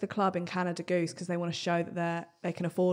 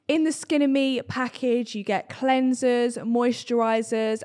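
upbeat sponsor read, slowed; slower than usual. Acted. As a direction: sell it like a podcast ad. Reads sponsor ad.

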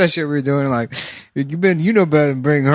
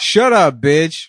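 put-on sassy girlfriend; 4 semitones higher, much slower than usual. Acted quarrel.

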